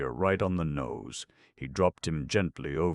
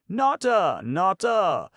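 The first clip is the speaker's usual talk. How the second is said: high, loud scream of a name; excited scream; 9 dB louder, slower than usual. A narrator's reading. Boy calls clown about another bite, excited scream. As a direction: scream excitedly for your friend. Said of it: "screamed Bob".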